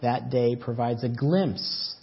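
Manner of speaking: earnest pastor addressing the congregation; sermon preaching. Acted. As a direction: preach it with steady conviction.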